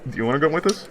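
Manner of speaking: high, bright hype-man voice; rally the room like a party host; eager jock. Acted. GM keeps voicing Forrest.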